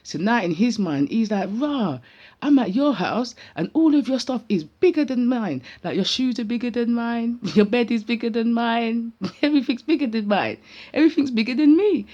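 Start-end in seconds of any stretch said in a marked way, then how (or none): 1.5-12.1 high, animated imitation of an amazed little boy; awestruck child. Voicing nephew overawed by the bigger house, amazed. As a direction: marvel with a laugh, building louder and higher.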